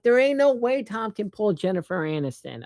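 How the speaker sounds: high, disbelieving scoff; incredulous. Retold or imitated. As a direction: scoff like nobody would believe it. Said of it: "because I'm like".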